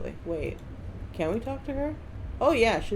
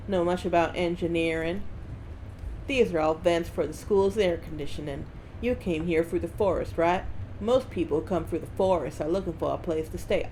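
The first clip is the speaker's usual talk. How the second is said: put-on Southern accent. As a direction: lay on a rough Southern US accent. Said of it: "I don't know why I'm doing this accent".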